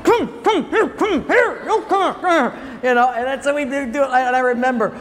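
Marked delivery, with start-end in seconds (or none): 0.0-2.5 much higher, louder beckoning mom; mock mom calling. Preacher imitating his mother beckoning the kids to be smacked, much higher and louder. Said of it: "And she'd".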